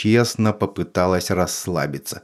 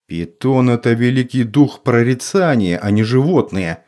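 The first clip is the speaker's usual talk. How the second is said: disdainful; 4 semitones higher, 4 dB louder than usual. Acted. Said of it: "скривилась ведьма".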